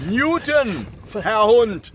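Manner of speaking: high loud irritated correction; loud impatient correction; exasperated correction. Acted. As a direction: snap the name back at him.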